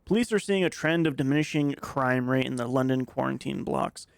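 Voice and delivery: reading a news report aloud. Acted. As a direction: newsreader style, measured. Reads in-game newspaper aloud.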